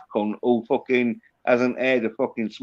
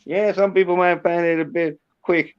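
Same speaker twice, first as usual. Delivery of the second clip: put-on Southern accent; 2 semitones higher than usual. Shown as a demonstration. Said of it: "this Southern accent".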